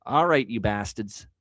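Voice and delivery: slow drawl in a Boston accent. Real, not acted. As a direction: say it like a Boston sports fan. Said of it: "I don't know why I said that with a Boston accent".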